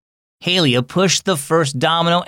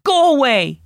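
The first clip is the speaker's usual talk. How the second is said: put-on high, loud childish shout; little girl's furious go-away; angry yell; 12 semitones higher, 4 dB louder than usual. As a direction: shove the dog off with your voice. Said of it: "she yelled".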